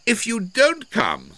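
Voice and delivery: loud, high, carrying voice; calling out a warning. A narrator's reading. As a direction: call up to someone out of sight. Calling a warning to hidden cousin.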